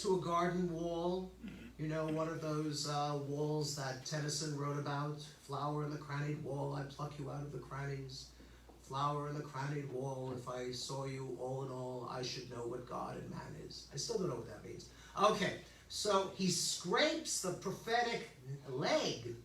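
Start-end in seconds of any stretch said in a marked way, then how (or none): 5.5-13.9 low, quiet recital of verse; poem recitation. Acted. Teacher quoting Tennyson on the garden wall, quiet recitation. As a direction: recite softly on an even, low pitch.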